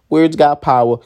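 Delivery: usual speaking voice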